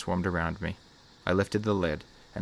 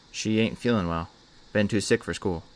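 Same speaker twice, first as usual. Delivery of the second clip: put-on heavy Southern accent; 2 semitones higher than usual. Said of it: "replied in a heavy Southern accent".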